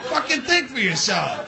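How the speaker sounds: usual speaking voice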